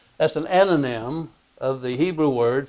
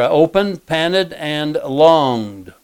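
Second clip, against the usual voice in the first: slow listing; 3 semitones higher, 3 dB louder, much slower than usual. Shown as a demonstration. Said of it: "three verbs there".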